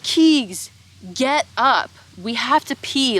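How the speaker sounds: high, loud urging; imitated impatient yell. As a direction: mimic friends nagging someone to move. Retold friends urging her up.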